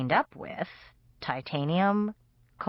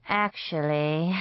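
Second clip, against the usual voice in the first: sighing; slower than usual. Acted. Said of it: "he sighed".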